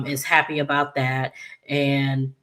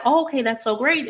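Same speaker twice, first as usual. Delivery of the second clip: pitched way up, chirpy and eager; high bright "great"; 10 semitones higher, faster than usual. Retold or imitated. Naomi gushing to Chelsea, high excited chirp. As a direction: sell the fake cheer high. Quoting Naomi's cheerful reply.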